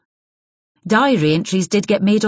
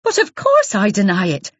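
hot denial; 4 semitones higher, 4 dB louder than usual. Acted. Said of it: "said Isabel hotly".

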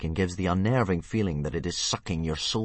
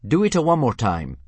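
high, loud dragon-language call; loud, raised dragon-talk; shrill Dragonese; 5 semitones higher, 7 dB louder than usual. A narrator's reading. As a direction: belt it out in Dragonese. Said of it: "punctuated by shrill shrieks and popping noises".

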